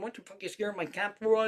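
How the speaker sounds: put-on high-pitched, rapid scolding of a boyfriend; mock angry yell. Crazy lady scolding her boyfriend, mock angry yell. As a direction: imitate an irate cat owner. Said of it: "she was yelling at her boyfriend".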